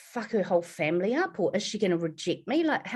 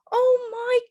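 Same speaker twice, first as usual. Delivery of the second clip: tearful joy; 14 semitones higher, 4 dB louder, slower than usual. Retold or imitated. Mother's emotional reaction.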